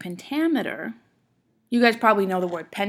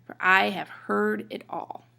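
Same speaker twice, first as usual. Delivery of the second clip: "for", "have" and "it" light and quick, "I", "heard", "all" weighted; unstressed words said quickly. Shown as a demonstration. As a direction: skip quickly over "for", "have" and "it". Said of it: "You say 'em kinda quickly".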